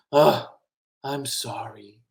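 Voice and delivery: very soft, whispered regret; sheepish apology. Acted. Octopus apologizes to upset best friend, hushed regret. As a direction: whisper it, feeling bad. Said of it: "feels a little bit bad".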